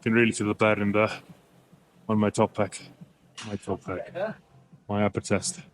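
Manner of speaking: winded after a heavy set; gasping words between breaths. Real, not acted. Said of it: "I'm trying to catch my breath".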